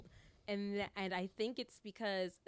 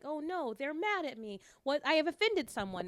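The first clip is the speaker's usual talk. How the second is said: mock worried; 8 semitones higher, 5 dB louder than usual. Voices former anxious people-pleasing self.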